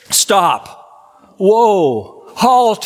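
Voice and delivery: desperate shouting, climbing with each cry; panicked shouts. Acted. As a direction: yell at a runaway horse, rising in panic. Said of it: "he shouted".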